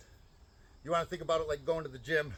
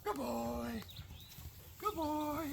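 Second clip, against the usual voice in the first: much higher, soft happy praise; 10 semitones higher, 7 dB quieter, much slower than usual. Real, not acted. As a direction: praise him sweetly and high. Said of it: "High and happy tone of voice".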